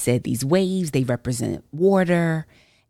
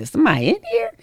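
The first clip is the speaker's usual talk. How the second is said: 1 spooked whisper; 9 semitones higher, 3 dB louder, faster than usual. Retold or imitated. Startled by voice in car.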